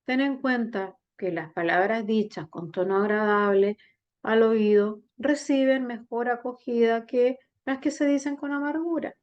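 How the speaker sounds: gently sad, subdued read. Shown as a demonstration. Teacher shows students the sentence read sadly. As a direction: let the sentence sink with sadness. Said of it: "con un sentimiento más triste".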